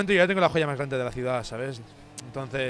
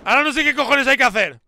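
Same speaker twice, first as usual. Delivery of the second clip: angry yelling; 12 semitones higher, 12 dB louder than usual. Real, not acted. Yelling during the game cutscene.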